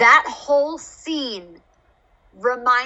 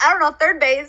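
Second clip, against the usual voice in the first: Who's on First line; 4 semitones higher, faster than usual. Retold or imitated. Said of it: "Abbott and Costello's Who's on First".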